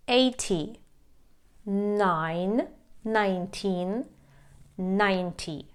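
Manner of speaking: put-on each number spaced out with pauses, teen stretched and tens stressed first; slow teacher drill, one number at a time; drill modelling stress. Shown as a demonstration. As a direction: model each word clearly for students to repeat. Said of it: "Давайте потренуємо ці цифри".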